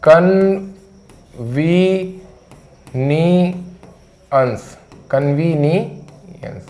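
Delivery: कन्वीनियंस stretched very slowly; pronunciation demo. Shown as a demonstration. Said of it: "इसका उच्चारण भी लिख दूं".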